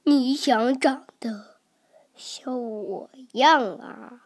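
put-on hushed, slow whisper over a sleeping child; whispering softly. T-rex whispering over the sleeping baby, slow and soft. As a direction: breathe it so he won't wake. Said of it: "霸王龙小声地说".

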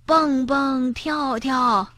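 high, soft drawn-out call; worried calling. A narrator's reading. Granny calling from her room, worried. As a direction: call anxiously to the children. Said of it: "担心地呼喊着".

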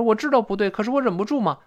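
put-on high-pitched helpless child; acted boyish whine; protesting son. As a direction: plead an excuse to mum. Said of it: "儿子说".

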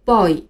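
put-on boy with the wrong vowel glide, as a learner's error; mispronounced boy. Shown as a demonstration. Teacher warns against this reading, mispronounced boy. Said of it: "千万不要读成boy".

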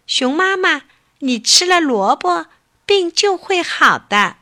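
a small rabbit cheering a patient; sweet little rabbit. Acted. Rabbit comforts mother bear with a carrot, high little bunny voice.

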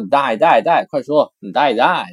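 loud, pushy Dai dai dai; teacher urging someone to talk. Shown as a demonstration. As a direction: hurry someone up.

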